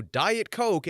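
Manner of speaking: high, commanding order; imperious demand. Retold or imitated. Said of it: "if all of us could go".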